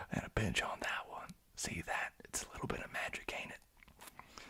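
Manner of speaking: soft American-style character whisper; whispered character line. Acted. Streamer quoting their bee character to viewers, whispering. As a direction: whisper it like a film quote.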